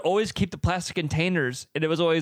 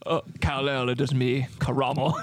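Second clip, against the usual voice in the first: overacted anime dub. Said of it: "Sounds like Superman's friend from Krypton".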